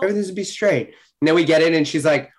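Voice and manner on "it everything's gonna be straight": higher, gentle comforting tone; soothing reassurance. Retold or imitated. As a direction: reassure an anxious friend lightly. Retells hugging and calming teammate.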